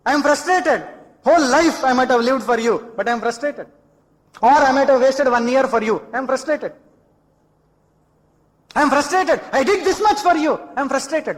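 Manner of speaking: mock exasperated outburst; acted frustration. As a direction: protest your frustration, pitch jumping up on the grievances. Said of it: "Frustration in the end".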